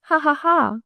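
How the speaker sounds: high, lightly choked laughter. A narrator's reading. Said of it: "she choked".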